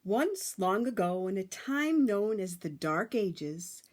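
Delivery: put-on lively read-aloud for children; storybook narration. A narrator's reading. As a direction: tell it like a bedtime story to a class.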